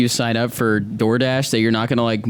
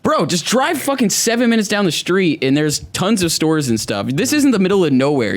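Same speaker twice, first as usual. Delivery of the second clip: exasperated rant; 6 semitones higher than usual. Retold or imitated. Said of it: "I'm like".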